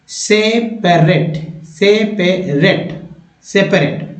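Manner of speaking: very slow, syllable by syllable; broken into syllables. Shown as a demonstration. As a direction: break the word apart slowly. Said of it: "तीन बार पढ़ें इसको तोड़कर". (तोड़कर धीमे धीमे उच्चारण)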